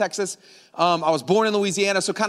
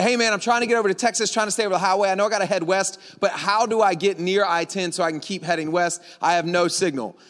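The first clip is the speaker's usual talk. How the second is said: lightly put-on Louisiana accent; your best friendly Louisiana Southern talk. Traveler asking directions at a gas station, Louisiana accent. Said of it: "I put my best Louisiana accent on".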